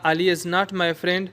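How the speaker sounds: Ali is not my friend read very slowly; slow example. Shown as a demonstration. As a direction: spell out the sentence slowly. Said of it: "कुछ जुमले ऐसे हैं जैसे".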